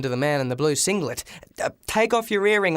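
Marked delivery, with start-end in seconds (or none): 1.6-2.8 shouting. Acted. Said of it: "I shouted into the junk pile".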